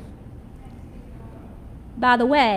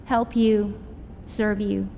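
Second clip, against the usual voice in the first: soft, lower and gentle offer of service; gracious welcome; 4 semitones lower, 4 dB quieter, slower than usual. Retold or imitated. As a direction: say it tenderly, as a quiet blessing. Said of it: "greet you with the gracious words".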